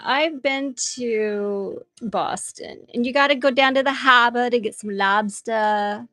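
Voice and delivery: put-on trying a shaky Boston accent. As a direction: lobster talk in a bad Boston accent. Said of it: "I've been trying a Boston accent".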